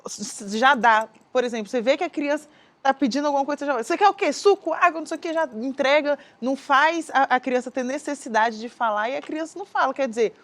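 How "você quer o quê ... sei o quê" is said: high-pitched, rattled-off parent offer; mock hurried parent, pitched up; impatient parent. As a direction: imitate a parent rushing to guess what the child wants. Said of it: "não têm paciência pra explicar".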